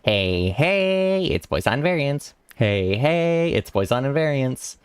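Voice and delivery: put-on the old squeaky streamer intro. Shown as a demonstration. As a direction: bounce the intro up high. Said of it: "like, even my intro".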